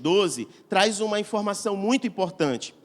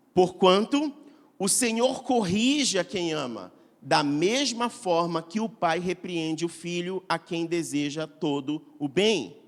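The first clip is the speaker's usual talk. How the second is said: slow, deliberate Bible reading; slow solemn reading of Proverbs; solemn scripture reading; 2 semitones lower, slower than usual. Acted. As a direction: let the verse land slowly. Reads Proverbs 3:12 aloud.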